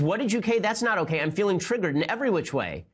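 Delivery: hammed-up offended woman voice; mock triggered woman. Host mocks the New York Times writer's outraged date. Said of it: "And then she says".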